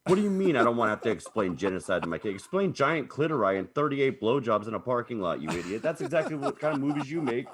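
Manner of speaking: exasperated, riled-up rant; worked-up anger. Real, not acted. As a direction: rant like you just got mad. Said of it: "now I'm angry. I just got mad".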